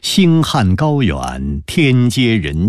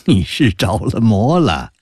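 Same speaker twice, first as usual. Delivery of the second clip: higher, lively amused chiding; 5 semitones higher than usual. Acted. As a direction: brush it off cheerfully and urge a friend on. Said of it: "高士奇哑然失笑道". (失笑着高声劝朋友)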